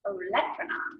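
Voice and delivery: Olecranon with weight on the second syllable, lec; pronunciation demo of Olecranon; stress second syllable. Shown as a demonstration. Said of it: "it's the same for the olecranon process".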